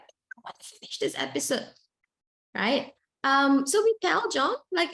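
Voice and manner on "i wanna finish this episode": put-on higher, softer whining child voice; whiny child. Mother imitates her son whining to keep watching TV, in a higher, softer whining child voice. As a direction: whine it like a kid begging for more TV. Child crying over switching off TV.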